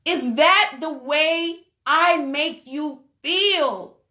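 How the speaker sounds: slow, drawn-out, pleading husband; mock heartbroken plea. Pastor acting the crying husband's plea to the congregation, slow and pleading. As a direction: stretch each word like a man breaking down. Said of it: "Listen to me, people".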